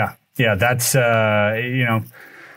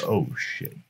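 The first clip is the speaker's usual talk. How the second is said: low, very quiet oh-no moment; retold sinking dread; 8 semitones lower, 10 dB quieter than usual. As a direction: drop to a low, hushed curse of dismay. Retold dread on seeing officers.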